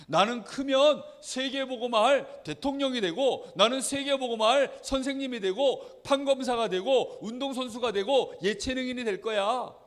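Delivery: high, declarative list of dreams; child's proud resolve. Acted. (높은 톤으로 당차게 다짐하는 아이 말투)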